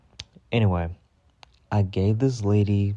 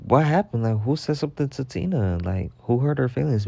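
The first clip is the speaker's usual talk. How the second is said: higher-pitched, baffled questioning; retold alarmed concern; 4 semitones higher than usual. Worker asking after her upset coworker, retold with alarm. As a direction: demand to know who upset her.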